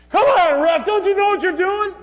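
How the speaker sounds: high, loud yell at the ref; heckling spectator shout. Pretend. Preacher mimicking a fan yelling at the ref, loud shout. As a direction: bellow at the referee from the stands.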